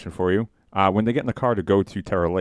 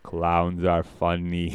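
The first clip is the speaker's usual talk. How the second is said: quoting Homer; much slower than usual. Retold or imitated. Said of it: "And he just goes".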